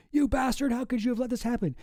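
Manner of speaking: high-pitched quoted outrage; mock outrage. Streamer reading the pregnant politician's line to her husband, mock outrage. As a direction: lightly act out an indignant telling-off.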